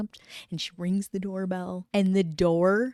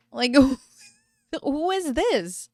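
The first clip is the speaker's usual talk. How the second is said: laughing disbelief; 6 semitones higher, 3 dB louder, slower than usual. Retold or imitated. Wife confronts stranger, laughing.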